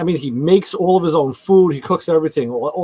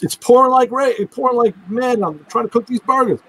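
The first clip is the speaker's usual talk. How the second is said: quoting wife; 7 semitones higher than usual. Retold or imitated. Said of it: "She goes".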